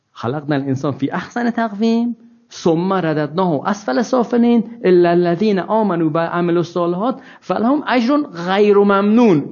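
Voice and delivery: slow, measured Quranic chant; slow recitation of scripture. Acted. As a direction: recite the verse reverently. Recites Quran verses in Arabic.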